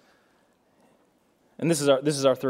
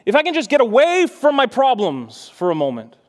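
higher, pressing voice of someone wanting escape; imagined wishful thinking; 7 semitones higher, 3 dB louder than usual. Retold or imitated. Voicing a person's thought of escaping problems, mock desperate wish. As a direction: act out a longing to get away. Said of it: "And you think".

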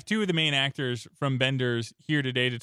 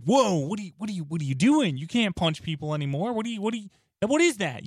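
retold scolding; 7 semitones higher than usual. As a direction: tell him off in disbelief. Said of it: "got completely yelled at".

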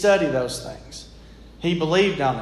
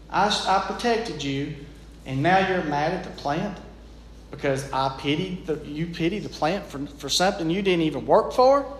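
voice of God; 4 dB quieter than usual. Retold or imitated. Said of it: "And God looked at Jonah and he says".

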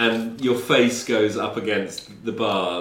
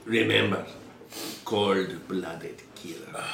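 slow, hushed warning; ominous warning; 2 semitones lower, 6 dB quieter than usual. Acted. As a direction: lean in with a dark warning. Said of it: "But he says".

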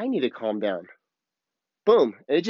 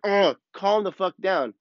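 higher, slow mock exasperation; exasperated inner demand; 5 semitones higher, slower than usual. Speaker inwardly telling others to settle, in mock exasperation. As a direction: groan out the retold inner demand, drawn out. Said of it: "having that inside of me".

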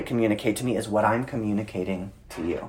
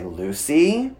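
name drawn out with rising warning; retold stern warning; 4 semitones higher than usual. Dad holding firm with daughter, rising warning. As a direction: raise the name slowly as a warning. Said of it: "I have to hold a stern face".

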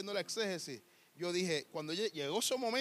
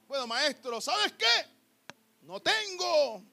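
much higher, slow sly voice; coy dodge; 7 semitones higher, 7 dB louder, much slower than usual. Acted. The woman coyly telling the master she has no husband, much higher. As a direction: play innocent, drawing out no tengo.

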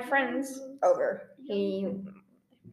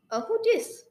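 put-on childish who dis; 10 semitones higher than usual. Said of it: "my brain, being a child, went".

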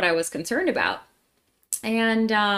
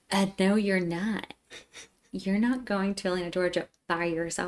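imitated stern dad; 5 dB quieter than usual. Dad forbidding daughter's Atlanta trip, understated stern. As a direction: put your foot down quietly as a father. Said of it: "you have to imagine him".

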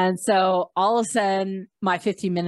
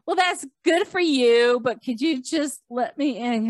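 impatient retort; 4 semitones higher than usual. Retold or imitated. Impatient retort to gushing guards.

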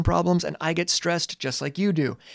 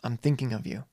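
tender note; 3 semitones lower, 5 dB quieter than usual. Retold or imitated. Mixtape message to a child.

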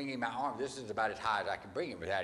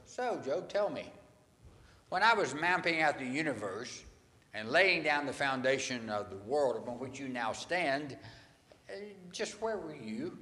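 God challenging Job; 2 semitones higher than usual. Retold or imitated. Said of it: "and he goes".

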